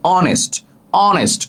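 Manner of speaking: "honest" repeated as "onest", vowel first; silent H. Shown as a demonstration. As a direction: say "honest" with no h at all. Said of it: "উচ্চারণটা অ হয়েছে".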